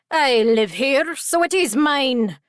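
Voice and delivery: slow, forceful little pixie voice; defiant pixie. A narrator's reading. Pixie squatter to the intruder, defiant. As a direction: stake a stubborn claim, drawn out.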